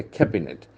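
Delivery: cabinet stressed on CAB; first-syllable stress. Shown as a demonstration. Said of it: "The accent falls on the first syllable".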